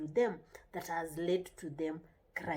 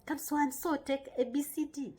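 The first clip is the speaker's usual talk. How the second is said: higher-pitched coaxing question; friendly asking; 6 semitones higher than usual. Shown as a demonstration. Parent asking a child to share, friendly asking. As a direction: ask a child nicely, voice raised in pitch. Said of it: "You're supposed to, to say".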